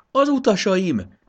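loud, high, drawn-out cry; slow, high-pitched shout; sudden exclamation. A narrator's reading. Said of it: "kiáltott fel Jakab".

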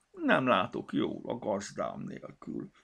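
slow, sulky small voice; slow, moping little complaint; crestfallen. Acted. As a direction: pout on the verge of tears. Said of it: "kámpicsorodott el a kis szemüveg".

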